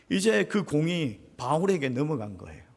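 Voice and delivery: usual speaking voice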